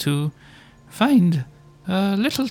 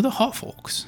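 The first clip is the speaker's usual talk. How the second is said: whispered; 7 semitones higher, 6 dB quieter than usual. Acted. Asks about the half-orcs.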